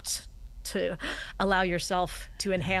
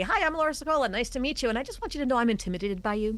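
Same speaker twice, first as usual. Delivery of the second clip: higher, bright mock introduction; mock nervous intro; 4 semitones higher, faster than usual. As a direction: play the nervous newcomer, lightly. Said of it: "Why would I tell you verbally".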